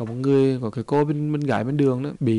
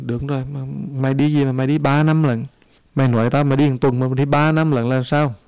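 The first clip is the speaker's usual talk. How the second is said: scolding master; 4 dB louder than usual. Acted. Master scolds the returning disciple.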